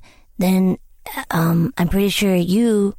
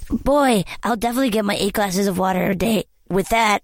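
voicing a commenter. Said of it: "what are these comments like".

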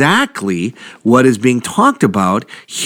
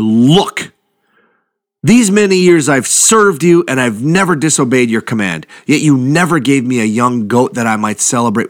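put-on aggrieved older brother; 3 semitones higher than usual. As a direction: voice the brother's bitter grievance. Older brother's complaint voiced.

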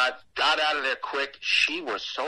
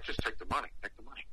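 hushed, low prompt fading away; discreet urging; 3 semitones lower, 10 dB quieter, much faster than usual. Retold or imitated. Boss silently urging him to accept the dollar, discreet hushed prompt. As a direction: urge it softly, under your breath. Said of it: "the boss is looking like".

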